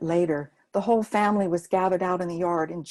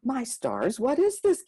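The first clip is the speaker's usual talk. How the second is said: much higher, louder startled cry; startled grandma; 4 semitones higher, 3 dB louder than usual. Acted. Gima caught off guard by the children's shivaree, startled. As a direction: jump at the sudden racket.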